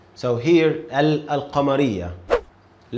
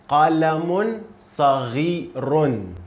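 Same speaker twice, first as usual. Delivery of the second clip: قلم صغير, slow, every syllable clear; slow model reading; 2 semitones higher than usual. Shown as a demonstration. Teacher reads it slowly for a student. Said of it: "Try to read it by yourself".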